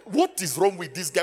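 ordinary talk

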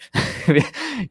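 short high-pitched laugh; amused chuckle. Real, not acted. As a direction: chuckle at your own disclaimer. Laughs at own disclaimer.

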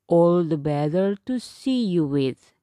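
low, loud wolf voice; a growly-toned beast answering; werewolf. Acted. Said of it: "said the wolf".

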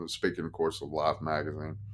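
ordinary delivery

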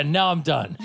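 Bender. Retold or imitated. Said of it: "He's like".

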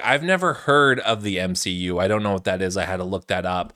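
lightly voiced clueless executive, low-pitched; aloof executive. Host imitating boardroom people too cool for games, aloof.

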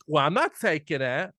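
put-on lightly done Jersey accent; imitated Jersey accent. Imitating a film heroine refusing cash, Jersey accent. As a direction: quote it with a touch of Jersey. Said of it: "the one line I heard her accent on".

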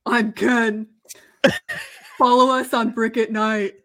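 lightly voiced caveman, half laughing; a hint of a dumb caveman. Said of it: "caveman voice".

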